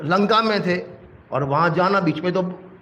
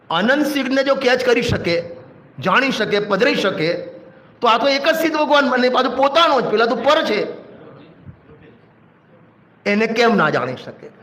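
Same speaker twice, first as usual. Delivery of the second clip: forceful preaching; 5 semitones higher than usual. Real, not acted. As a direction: drive the point home to the hall. (જોરથી પ્રવચન આપતા)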